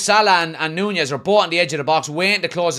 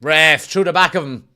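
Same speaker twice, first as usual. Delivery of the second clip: yelling from the sidelines; 4 dB louder than usual. Real, not acted. Fan appeals to referee.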